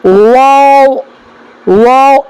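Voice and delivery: واو with rounded lips; careful model of واو; letter demo. Shown as a demonstration. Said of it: "جیسے دیکھیں".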